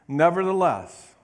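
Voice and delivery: Nevertheless rung out loud and falling; loud proclaimed nevertheless. Shown as a demonstration. Preacher proclaiming Nevertheless to the congregation. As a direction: call out Nevertheless to the church. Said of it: "say nevertheless".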